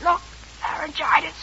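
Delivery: faked lost voice. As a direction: pretend she can't speak. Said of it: "You're hamming, you're shamming".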